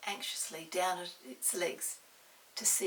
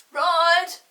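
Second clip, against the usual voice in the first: much louder shout back; called back; 11 semitones higher, 21 dB louder than usual. Acted. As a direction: shout across the garden.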